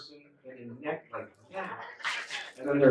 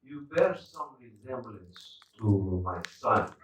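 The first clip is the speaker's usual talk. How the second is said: slow, measured, stately delivery; formal fading dad; 3 semitones lower, 4 dB quieter, slower than usual. Retold or imitated. Fading dad half-recognizes his son, slow formal impression. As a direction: lightly imitate the dad's grand manner. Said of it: "he talks like this".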